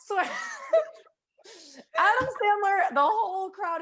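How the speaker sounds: high, laughing excitement; bursting with laughing glee; excited. Real, not acted. Excited retelling of crowd moment.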